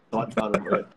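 hushed whisper of the touchy word. Shown as a demonstration. Host whispering the risky word so nobody accuses him. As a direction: drop to a secretive whisper. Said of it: "เดี๋ยวจะหาว่า".

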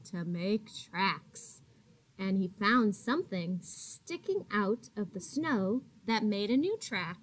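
gentle, expressive read-aloud voice; reading to children. A narrator's reading. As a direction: read it like a picture book for little kids. Teacher reading picture book aloud.

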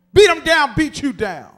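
loud taunting shout of a schoolyard bully; bully's taunt. Retold or imitated. The bully Debo taunting everyone he knocked out, loud. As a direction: bark it like the bully who won the fight.

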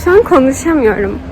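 lisping with new retainers; wearing a retainer. Real, not acted. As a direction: talk through fresh retainer plates. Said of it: "peltek konuşuyorum ve konuşmam çok zor".

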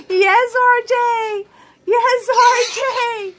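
slow, drawn-out, happy cheer; delighted cheer. Real, not acted. Cheering the dancing baby.

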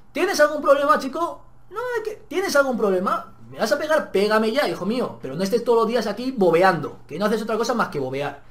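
high, loud taunting dare; defiant shout. Retold or imitated. Student dares the bully to hit him, loud and defiant. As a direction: challenge him to hit you.

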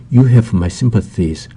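very slow, every word laid out; slow, careful example sentence; slow model reading. Shown as a demonstration. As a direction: read it slowly for learners to copy. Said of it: "model sentence read slowly".

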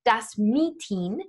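"Meeting" stressed on the first syllable, MEE-ting; English stress on Meeting. Shown as a demonstration. Teacher giving German loan word example, stress on MEE in "Meeting". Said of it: "emphasized the same way that we say".

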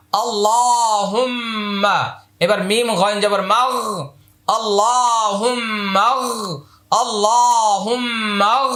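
আল্লাহুম্মা slowly chanted, doubled ম held; drawn-out recitation. Shown as a demonstration. Teacher modelling আল্লাহুম্মাগ slowly for students. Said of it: "আলিফটা উচ্চারণে আসবে না".

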